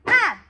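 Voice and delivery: "Ah" as a short open ah; short a sound. Shown as a demonstration. Teacher to kids, demonstrating the letter A sound loudly. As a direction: say "Ah" loudly with a wide mouth. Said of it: "It says".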